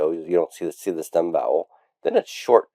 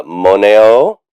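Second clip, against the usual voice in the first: "moneo" slow and drawn out, rising at the end; chant-like model for a class to echo; recitation for repetition; 2 semitones higher, 5 dB louder than usual. Shown as a demonstration. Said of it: "You can repeat after me".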